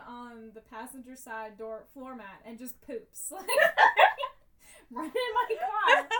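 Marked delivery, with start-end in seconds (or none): 3.4-6.1 loud high laughter; laughing. Real, not acted. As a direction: laugh through the words. Laughing at dog pooping.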